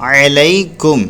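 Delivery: अलैकुम slowly, ऐन and लाम not stretched; slow tajweed reading. Shown as a demonstration. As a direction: read अलैकुम slow, with short vowels. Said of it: "ऐन ज़बर आ पढ़ेंगे".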